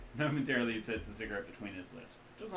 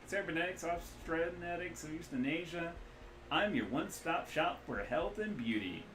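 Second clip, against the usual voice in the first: loud, loose Midwestern rigger; cheery hungover Midwestern drawl; Midwestern accent; 8 semitones higher, 4 dB louder than usual. Acted. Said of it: "loose Midwestern accent".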